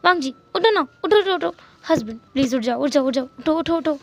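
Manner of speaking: put-on a needy childlike whine; childish pleading. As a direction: tug at him to wake up. Waking husband at midnight.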